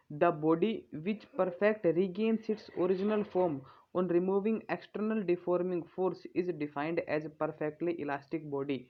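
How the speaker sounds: slow, measured reading of a definition to copy down; slow dictation read. Acted. Teacher dictating a definition to students, slow and measured. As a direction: read it out word by word so students can write it.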